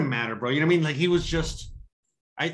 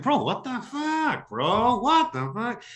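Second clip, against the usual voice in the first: exasperated disbelief; 6 semitones higher, much slower than usual. Retold or imitated. His own retold exasperation.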